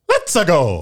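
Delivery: high, loud cartoon-Italian cheer; Mario. Mimicking the game's few phrases, in a high Mario voice. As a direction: squeal it like a game catchphrase. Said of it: "He just says".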